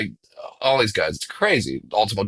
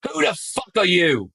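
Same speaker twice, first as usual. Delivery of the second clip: higher, put-on voice, laughing as it comes out; a singer's blunt question; 9 semitones higher than usual. A singer turning to a stranger on set, a higher put-on voice with a laugh. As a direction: toss it off like a star baffled by a stranger. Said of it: "looks at me and goes".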